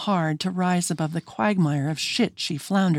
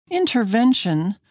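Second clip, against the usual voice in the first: higher, rising disbelief; incredulous question; 7 semitones higher, 3 dB louder than usual. A narrator's reading. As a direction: echo the word back in surprise.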